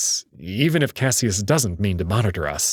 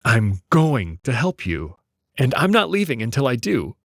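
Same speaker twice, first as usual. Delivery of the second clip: careful; 2 semitones higher than usual. Acted. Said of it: "I choose my words carefully".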